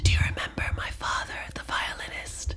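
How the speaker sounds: fast breathy whisper; mock whisper. Mocking the heroine's lines to Meg, in a fast mock whisper. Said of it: "she's whispering".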